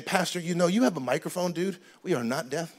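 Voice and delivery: soft, restrained, reasonable request; gentler complaint. Acted. Congregant to pastor about the microphone, softly reasoning. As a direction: bring it right down and ask calmly. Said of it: "Instead of saying".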